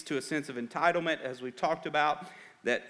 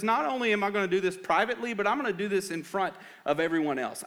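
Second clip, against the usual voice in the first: higher-pitched, pressing sermon delivery; raised preacher's voice, driving the point; emphatic preaching; 6 semitones higher, 3 dB louder, faster than usual. Real, not acted. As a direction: preach it with rising energy to the congregation.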